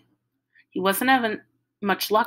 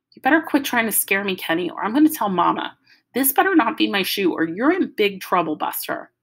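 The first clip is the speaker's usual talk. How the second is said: threatening little sister; 2 semitones higher than usual. Acted. Joey threatens to tell Mama.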